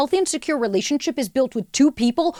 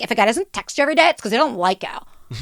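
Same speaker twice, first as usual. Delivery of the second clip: fast, lightly mocked valley voice; young TikTok girl. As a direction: rattle off the advice. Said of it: "twenty-two-year-old girl that's like".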